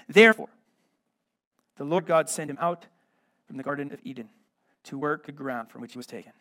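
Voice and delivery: measured, solemn Bible reading; scripture reading. Acted. Reads scripture passage aloud.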